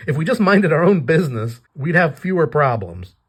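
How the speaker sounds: fed up, half laughing at her; grumbling Wolf. Retold or imitated. Wolf scolds Batsy for always helping, exasperated. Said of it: "he's the one that's always saying".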